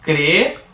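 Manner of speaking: creem as cre, then em, two distinct beats; split into syllables. Shown as a demonstration. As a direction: pull the two e sounds apart in creem. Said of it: "Se eu for separar isso aqui". (creem dividido em duas sílabas, cre-em)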